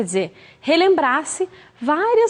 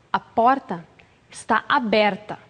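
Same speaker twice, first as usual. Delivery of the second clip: stern hint; 4 semitones lower, slower than usual. Shown as a demonstration. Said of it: "a entonação também muda".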